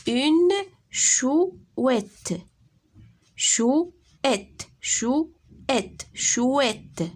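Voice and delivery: chouette plus haut, appuyé, qui retombe; répéter chouette en marquant ses deux syllabes; mot répété, appuyé. Shown as a demonstration. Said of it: "Deux syllabes". (ترديد chouette بصوت مرتفع ونبر واضح)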